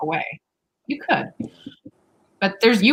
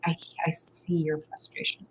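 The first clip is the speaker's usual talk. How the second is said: soft, calm reassuring voice, getting quieter; gently calm a frustrated partner; soothing reassurance; 2 semitones lower, 6 dB quieter than usual. Retold or imitated. Partner calming a frustrated partner, soft and reassuring. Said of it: "slow it down there and be like".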